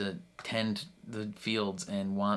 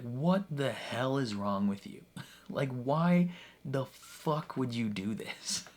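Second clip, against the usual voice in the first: mock exasperation; 3 semitones higher than usual. He comes back to the gardener's killers, mock exasperation. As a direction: act out his disbelief, half laughing. Acts out his angry return.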